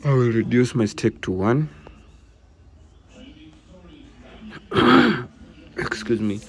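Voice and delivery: speaking through a sore throat; rough, throat hurting, coughing. Real, not acted. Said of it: "I have a very bad sore throat".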